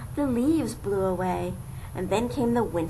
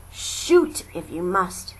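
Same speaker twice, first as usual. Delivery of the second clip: defiant; 4 semitones lower, 4 dB louder than usual. Acted. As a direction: stand firm and dare them. Brave stand before hunters.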